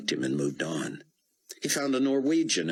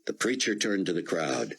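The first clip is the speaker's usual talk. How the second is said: usual speaking voice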